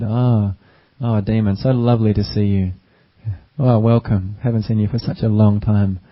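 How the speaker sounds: lightly acted gracious host, gently delighted; welcoming emperor. Wise emperor greets the demon on his throne, mildly acted welcome. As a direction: greet an unwelcome guest like a dear old friend. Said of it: "the emperor started talking like this to the".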